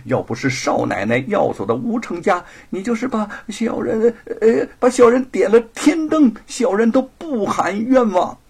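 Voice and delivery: high, loud, frantic pleading; loud clamoring. Acted. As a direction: cry out and swear it to the master. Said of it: "大呼小叫地说". (大呼小叫地喊冤)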